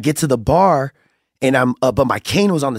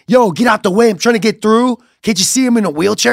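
higher, pushy mock complaint; raised-pitch indignant retelling; retold irritated demand; 8 semitones higher than usual. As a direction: imitate someone impatiently demanding passage. Woman demands he move aside.

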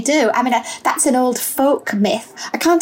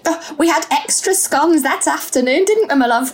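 put-on old lady voice; 3 semitones higher than usual. Old auntie role, laughing.

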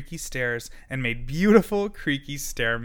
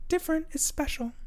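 high, fast little turtle; the turtle tells everyone different is fine; faster than usual. A narrator's reading. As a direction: say it high and quick like a tiny turtle. Turtle speaks.

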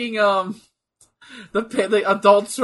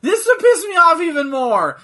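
higher, laughing rant; 9 semitones higher, 6 dB louder than usual. Real, not acted. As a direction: repeat it still laughing. Laughing while ranting.

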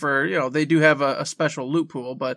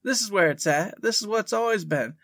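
excited; 6 semitones higher than usual. Retold or imitated. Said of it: "And I went".

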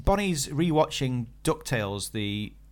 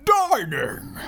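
dynamic heading; 11 semitones higher than usual. Shown as a demonstration. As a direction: sell the word Dining with punch. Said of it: "Bit more dynamic".

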